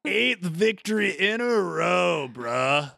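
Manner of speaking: high shouted boast; cocky bro shout. Acted. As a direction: brag like a cocky gladiator.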